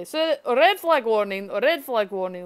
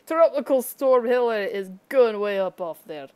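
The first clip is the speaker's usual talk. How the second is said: mock forecast model; 5 dB louder than usual. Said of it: "and they're saying".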